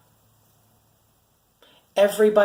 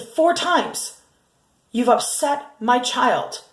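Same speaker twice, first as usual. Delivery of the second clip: retelling how she raised her voice; 4 semitones higher, slower than usual. Retold or imitated. Mother confronting the shelter worker, raised voice. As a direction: voice jumps high on FOUR, then slows. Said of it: "because I raised my voice".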